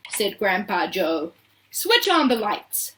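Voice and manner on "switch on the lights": higher, drawn-out command; shouted order. A narrator's reading. Mister Wonka ordering lights in the dark tunnel, shouted. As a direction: call it out with authority. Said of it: "shouted Mister Wonka".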